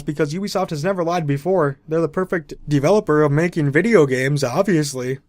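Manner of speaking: mock-sincere praise with obvious sarcasm; sarcastic. YouTuber sarcastically vouching for Ubisoft to his viewers, sarcastic. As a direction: lay on the praise, meaning the opposite.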